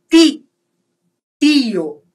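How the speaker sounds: "ti" and "Tio" with tee, never chee; pure T sound. Shown as a demonstration. Teacher recaps T before I, hard T in "Tio". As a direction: keep a clean dental T in "Tio". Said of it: "eu vou falar o T I".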